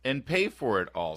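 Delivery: slow, mocking drawl; sarcastic retort. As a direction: keep the sarcastic jab going. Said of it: "It's like".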